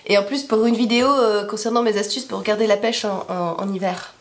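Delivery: hoarse sick voice; smoker's rasp. Real, not acted. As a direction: rasp from a cold. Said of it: "avec une voix de, de fumeuse".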